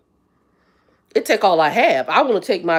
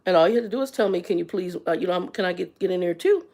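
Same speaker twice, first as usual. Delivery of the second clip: sarcastic retort; 5 dB quieter than usual. Retold or imitated. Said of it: "I said".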